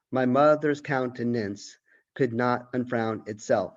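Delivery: measured recitation of the poem; poem reading. Acted. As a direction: read each line with an even, recited rhythm. Teacher reads poem aloud.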